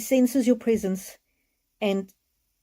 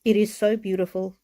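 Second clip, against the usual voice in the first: crying. Real, not acted. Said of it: "I'm not gonna apologize for crying".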